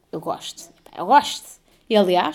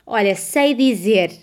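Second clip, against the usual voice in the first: slow, louder old-lady impression; César Mourão's old woman; 6 dB louder, much slower than usual. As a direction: drawl it like an old storyteller. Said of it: "quando imita velhas". (imitação de velha, arrastada)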